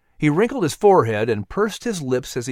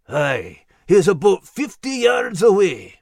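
a lightly gruff dog voice, louder; urgent little dog alert; dog Max barking a warning; 6 semitones higher, 4 dB louder, slower than usual. A narrator's reading. Dog warns the humans about the panther, gruff and alert. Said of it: "Max barked".

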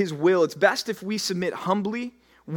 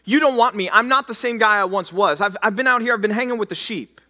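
Moses pleading; 4 semitones higher, 4 dB louder than usual. Acted. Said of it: "Moses objects and says".

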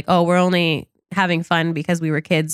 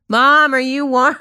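put-on higher shaky old person repeat; very old faint voice; 5 semitones higher, 3 dB louder than usual. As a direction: pretend to be very old. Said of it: "And they're like".

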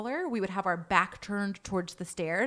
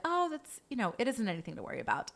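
lightly brushing it off, softer and quick at the end; calm, matter-of-fact; 4 dB quieter, faster than usual. Retold or imitated. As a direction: imitate a client casually reassuring. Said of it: "just calmly and matter-of-factly, the client was like".

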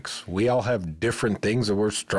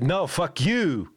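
high, drawn-out put-on Asian accent; hammed-up Asian-accented retort, stretched slowly; jokey Asian accent, pitched way up; mock Asian accent; 8 semitones higher, much slower than usual. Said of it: "That was Asian more so".

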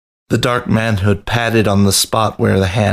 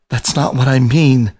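higher, earnest plea; pleading; 4 semitones higher than usual. A narrator's reading. Rat correcting the lion, higher earnest plea. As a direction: beg to be understood. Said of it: "Biscuit pleaded".

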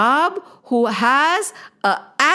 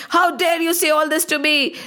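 mock angry outburst; 5 semitones higher than usual. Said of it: "he would get so angry".

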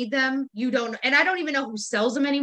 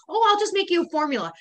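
quick, higher-pitched eager imitation; mock excitement; 4 semitones higher, faster than usual. Mimicking a coworker keen to do an Excel formula, mock excited. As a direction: rattle it off over-eagerly, mimicking a show-off. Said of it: "they say it so, like, excitedly".

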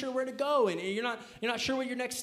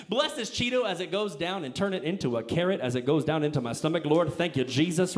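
mock grace; 5 semitones lower, 4 dB louder than usual. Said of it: "this is how he's praying".

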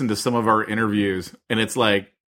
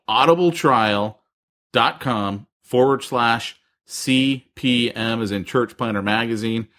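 slow, careful URL read; slow and clear; slower than usual. Shown as a demonstration. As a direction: spell it out slowly. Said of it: "you better do it again".

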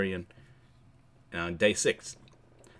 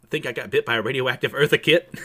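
laughing; 3 semitones higher, 6 dB louder than usual. Real, not acted. Joking about own lack of powers.

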